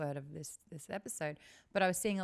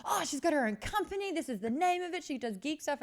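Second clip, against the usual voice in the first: put-on girly voice; 9 semitones higher, 5 dB louder than usual. Girl's voice in retold chat.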